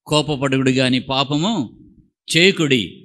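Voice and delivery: slow, solemn recital of the verse; scripture reading. Shown as a demonstration. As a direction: read the verse weightily. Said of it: "అంట?". (గంభీరంగా వాక్య పఠనం)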